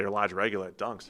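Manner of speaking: Boston-style order at the coffee counter; casual Boston-accented example. Shown as a demonstration. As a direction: demonstrate local Boston phrasing. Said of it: "there's a way to say".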